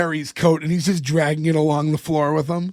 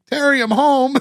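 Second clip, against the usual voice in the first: high, louder sing-song call into the house; 8 semitones higher, 4 dB louder than usual. Retold or imitated. Warren calling out to Terry on arriving home. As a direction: call cheerfully into an empty apartment.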